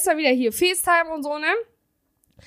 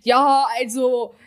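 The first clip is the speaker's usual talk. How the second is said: mocking imitation. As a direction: ham up a clueless bro. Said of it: "Das hab ich nicht gesagt".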